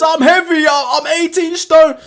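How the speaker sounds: imitating AJ. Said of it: "The bit where he says".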